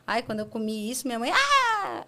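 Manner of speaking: mock panic over the child's plate; hammed-up shriek of alarm at the table; panicked parent.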